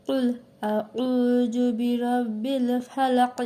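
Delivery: slow tajweed recitation, কুল with a heavy ক. Shown as a demonstration. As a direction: recite slowly, drawing out each word. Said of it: "তাহলে কি আমাদের উচ্চারণ হচ্ছে". (ধীর তিলাওয়াত)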